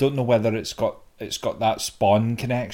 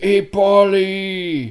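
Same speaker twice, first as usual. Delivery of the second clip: loud call with the name stretched long; 9 semitones higher, 7 dB louder than usual. Explaining which game character was meant: imitating the older guy. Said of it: "the older guy that's like".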